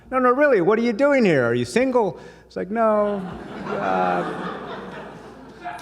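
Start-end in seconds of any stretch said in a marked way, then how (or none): 0.1-2.2 put-on high, loud, prying Israeli accent. Shopkeeper teasing a customer about being single, Israeli accent. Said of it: "Israeli accent". 2.7-5.8 higher, stammering, flustered reply. Retold or imitated. Customer dodging the shopkeeper's matchmaking, flustered and higher.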